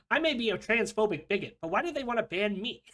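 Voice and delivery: mock indignant. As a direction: play the wronged victim as a joke. Mocking quote of pundit's complaint.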